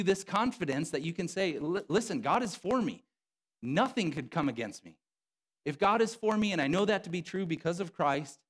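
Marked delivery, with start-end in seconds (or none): 1.6-8.4 higher, bold and boasting; a cocky believer's brag; gospel swagger. Retold or imitated. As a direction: strut through it like nothing can touch you. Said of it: "it gives you a gospel swagger".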